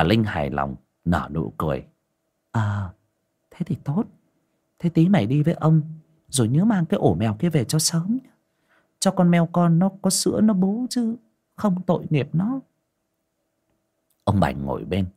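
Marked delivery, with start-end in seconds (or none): 2.5-12.6 high-pitched nagging wife; old wife nags her husband, high and quick; scolding wife. Acted. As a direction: nag him in a high voice. Wife pleased.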